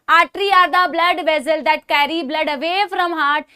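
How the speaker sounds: very slow, word-by-word textbook recitation; slow recited definition. Shown as a demonstration. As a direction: spell out the standard definition so students can write it down. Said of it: "हम हमेशा कहते हैं". (बहुत धीरे, शब्द-शब्द रटी हुई परिभाषा बोलना)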